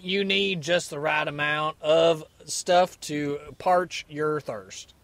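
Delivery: drawn-out hammy Australian or Cockney ad voice; mock Australian-or-Cockney accent. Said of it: "Was that an Australian or a".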